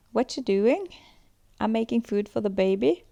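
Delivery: put-on "doing" and "baby" lifted at the end like questions; high rising terminal. Shown as a demonstration. Teacher demonstrating Kiwi upspeak, each line rising at the end. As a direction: let each statement end on a rise. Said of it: "a conversation could sound like this".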